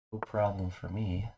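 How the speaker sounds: usual speaking voice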